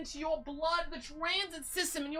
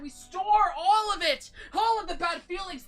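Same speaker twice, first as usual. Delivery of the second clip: dramatic climax; 5 semitones higher, 8 dB louder than usual. Pretend. Climax of the list.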